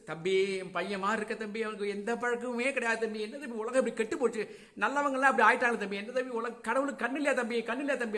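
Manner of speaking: high, pleading wail of a mother; mother's lament. Acted. Mother pleading her son's innocence to detective, lamenting. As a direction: lament rapidly, voice lifted in appeal.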